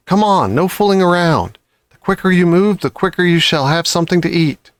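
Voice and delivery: high, brisk urging; urging fox. Acted. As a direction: hurry them along. Mister Fox urging cubs.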